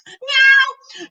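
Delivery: high loud meow; cat meow. Acted. Cat meowing in the kitchen, high meow. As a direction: mew sharply.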